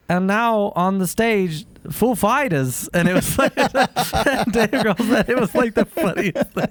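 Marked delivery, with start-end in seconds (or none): 0.1-2.9 slow, deadpan announcer impression; lightly voiced actor announcing, slowed right down; Christopher Walken. Announcing the band on stage in a slow mock Walken voice. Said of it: "So he's like".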